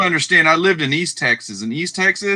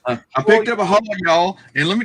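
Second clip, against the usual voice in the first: playful Southern twang; 4 semitones higher than usual. Pretend. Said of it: "I'm gonna twang it up".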